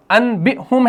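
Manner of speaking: انبئہم said with a clear N, "an-bi-hum"; انبئہم as spelt, n before b; written form with noon. Shown as a demonstration. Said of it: "تو اس کو پڑھا جائے گا".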